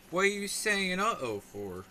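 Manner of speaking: high, loud disbelieving question; what, an uh-oh?; incredulous. Real, not acted. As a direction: demand an answer in mock outrage. Reacting to chat's uh-oh.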